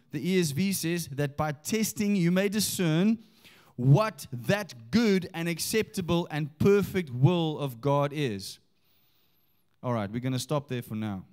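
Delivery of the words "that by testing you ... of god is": slow, emphatic Bible reading; scripture reading. Acted. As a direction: proclaim the verse to the congregation, drawing words out. Reads scripture aloud.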